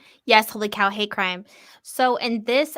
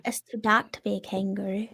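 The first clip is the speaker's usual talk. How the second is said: put-on Australian accent. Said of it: "tried to do an Australian accent".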